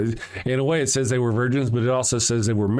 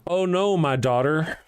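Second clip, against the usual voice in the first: higher, hammed-up wail of a grieving father; melodramatic lament; 5 semitones higher than usual. Shown as a demonstration. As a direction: overplay the father's despair. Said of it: "I'll read that again".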